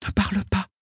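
lightly voiced high young girl. A narrator's reading. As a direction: gently hush him as a girl. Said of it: "me dit Aîné".

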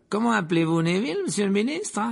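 high, excited calling out. Acted. Stan calls his mate over, excited and high. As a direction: shout for your mate to come look.

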